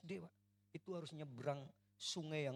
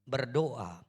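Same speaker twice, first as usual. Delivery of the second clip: scripture read out together, much louder, slow; full-force congregational scripture reading; loud reading aloud; 5 semitones higher, 17 dB louder, slower than usual. Real, not acted. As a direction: declaim the verse to the whole hall. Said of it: "yuk baca, satu, dua, tiga".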